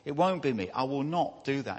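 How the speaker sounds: mildly emphatic protest, stressing each denial. Retold or imitated. Peter insisting to Jesus he won't betray him, emphatic. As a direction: retell Peter's firm refusal. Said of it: "And Peter's emphatic".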